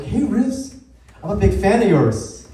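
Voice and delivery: high-pitched fan greeting; eager fan. Retold or imitated. Musician approaches Riz in the green room, eager fan. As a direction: pipe up as a keen fan.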